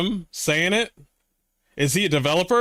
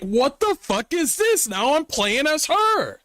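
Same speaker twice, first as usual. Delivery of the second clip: high-pitched, mock-outraged disbelief; shocked disbelief; 10 semitones higher than usual. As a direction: squeak it out like you can't believe the game. Reacting to game plot twist.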